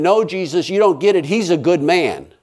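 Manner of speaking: mild retold scream of objection. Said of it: "And I'm screaming".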